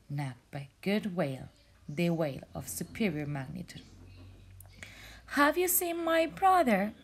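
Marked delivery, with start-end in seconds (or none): 5.4-6.9 sad asking. Acted. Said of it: "really, really sad".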